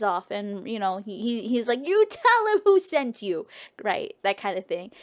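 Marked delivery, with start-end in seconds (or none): 1.9-3.5 raised, higher-pitched warning; mock threat. Oedipus warning the one soldier running off, mock threat. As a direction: call it after a fleeing enemy. Victor warns fleeing soldier.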